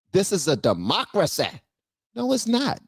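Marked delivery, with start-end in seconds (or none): 0.1-1.5 imitating her, punch de-MOC-racy; lightly mimicked chesty proclamation; mock emphatic declaration. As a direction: mockingly declare it with your chest. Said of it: "she said it with her chest".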